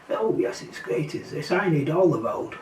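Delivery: airy, whispery sneer at entitled cyclists; breathy and smug, mocking their entitlement; mock posh cyclist. Mocking entitled cyclists who want the whole road, in an airy sneer.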